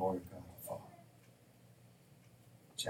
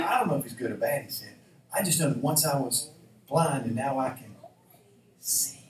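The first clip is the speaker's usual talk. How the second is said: louder, insistent blind man's reply; emphatic testimony; 3 semitones higher, 6 dB louder than usual. Acted. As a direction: punch out the answer emphatically. Blind man answers his questioners.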